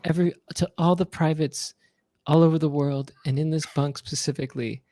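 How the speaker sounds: thanking the troops in a gentle star voice; mock pop-star message. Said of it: "he goes like this".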